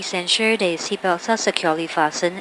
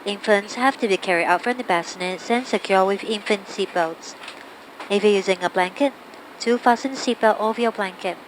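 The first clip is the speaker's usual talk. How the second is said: cabin announcement. Real, not acted. Crew PA seatbelt sign announcement.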